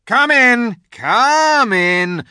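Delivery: high, loud wolf welcome. A narrator's reading. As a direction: call him in like a guard wolf. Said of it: "came bounding back and said".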